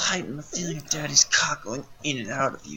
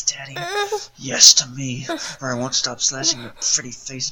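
much louder, forceful command; barked demand; 5 dB louder than usual. Acted. Father forces the captive to say yes, loud and commanding. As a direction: bark the order at her.

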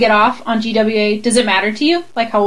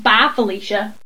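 proud little Southern imitation; Southern accent; 2 semitones lower than usual. Showing off her mimicry to her friend, Southern accent. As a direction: copy a friend's Southern twang. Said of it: "I did that just like".

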